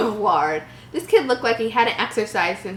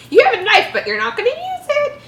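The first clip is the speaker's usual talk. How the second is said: mocking disbelief; 14 semitones higher, 4 dB louder than usual. Real, not acted. Mocking the story's logic.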